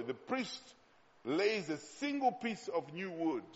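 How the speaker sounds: slow, deliberate verse reading. Shown as a demonstration. Preacher shows congregation how to read the verse slowly, slow reading. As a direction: read it slowly, pausing after the subject. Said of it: "read it again and read it slowly".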